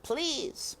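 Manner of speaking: one last begging try; desperate plea. A narrator's reading. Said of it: "said Despero".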